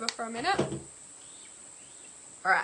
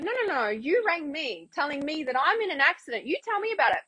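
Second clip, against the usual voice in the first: higher, sing-song pushback; playful challenge; 5 semitones higher than usual. Retold or imitated. Turning it back on the scam caller, mock protest. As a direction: toy with them while objecting.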